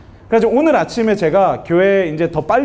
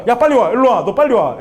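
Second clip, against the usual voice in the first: urgent calling; 4 semitones higher than usual. Retold or imitated. Father orders fleeing son back.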